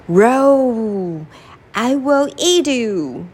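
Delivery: hammed-up angry lion roar; a storybook lion growling at the mouse; lightly voiced angry lion.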